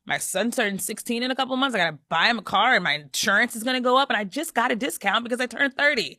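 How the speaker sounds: reading while about to cry; real tears welling up; teary voice. Real, not acted. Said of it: "I can't even read it through the tears".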